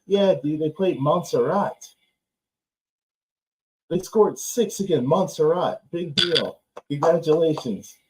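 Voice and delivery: dry sarcastic put-down of the win; mock congratulations, unimpressed; sarcastic reply. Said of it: "the sarcasm".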